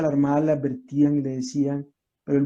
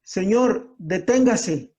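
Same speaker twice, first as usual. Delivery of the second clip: mildly raised, higher call to halt; retold distant shout; 3 semitones higher, slower than usual. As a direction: call out a command, only half shouted. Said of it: "y le grita desde lejos".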